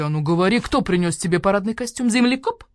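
loud threatening interrogation; gruff detective barking at a captive; angry demand. Acted. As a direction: squeeze the answer out of him. Badger cat interrogates the owl.

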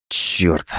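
low groaned curse. A narrator's reading. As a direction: groan the word out. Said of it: "простонал он".

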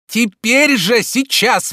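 high, loud, urgent command; agitated hurrying. A narrator's reading. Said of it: "в волнении торопил его Обломов". (в волнении, торопя)

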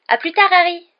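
very high, loud little voice; small high voice. A narrator's reading. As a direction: squeak it out as he's swept away. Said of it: "d'une petite voix aiguë".

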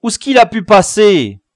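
loud, high anxious question; agitated searching; very worried. A narrator's reading. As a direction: cry it out in alarm. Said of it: "le chef très inquiet".

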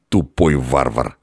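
slow, muted grumble; contemptuous innkeeper's aside; grumbling. A narrator's reading. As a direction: grumble an insult to yourself. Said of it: "мысленно проворчал трактирщик".

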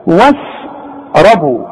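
واشربوا stretched slowly, shin light and clear; slow tajwid recitation of واشربوا. Shown as a demonstration. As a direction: draw out واشربوا, keep the shin thin. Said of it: "وش".

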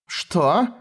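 high, indignant "Что?"; outraged noblewoman's cry; angry cry. A narrator's reading. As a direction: fling it in his face. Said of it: "сердито вскричала она".

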